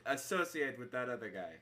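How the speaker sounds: lightly voiced, annoyed innkeeper; put-out tavern keeper in character; irritated innkeeper. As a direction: grumble at a guest about their companion. Game master plays Bruin the innkeeper.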